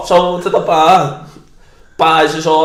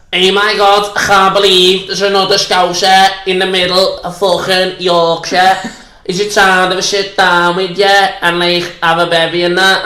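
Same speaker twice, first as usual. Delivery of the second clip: Scouse woman; 4 semitones higher than usual. Retold or imitated. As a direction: play a chatty Scouse woman thrilled to meet a fellow Scouser. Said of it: "this Scouse woman with one leg".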